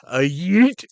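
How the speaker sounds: loud high yelp of "A yeet"; mock yell. Wrestler yelps at the hard camera before running, loud mock yell.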